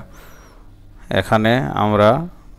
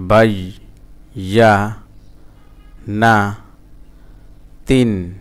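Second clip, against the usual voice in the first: each syllable of "বাই, ইয়া, না। তিন।" said separately with long gaps; broken syllable-by-syllable; slower than usual. Shown as a demonstration. Teacher sounding out Quranic Arabic for beginners, broken into syllables. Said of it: "ভাঙা ভাঙা উচ্চারণ".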